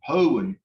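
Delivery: "hoen" with a short E before the N. Shown as a demonstration. Teacher repeats the adjective for a student, short E. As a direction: say "hoen" ending in "un", no long ee. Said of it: "pronounce it with the shorty sound".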